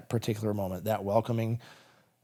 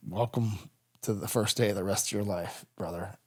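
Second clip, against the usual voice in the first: gentle welcome; 3 semitones lower, 5 dB quieter than usual. Retold or imitated. Mentor gently greeting survivor.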